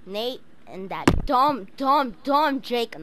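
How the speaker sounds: mock insult. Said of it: "No, I'm just kidding".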